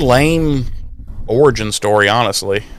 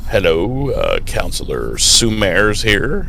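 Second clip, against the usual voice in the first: slower, businesslike counselor answering the phone; professional phone greeting; 3 semitones lower, 5 dB quieter, slower than usual. Shown as a demonstration. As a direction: sound like a proper school counselor. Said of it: "no professionalism whatsoever".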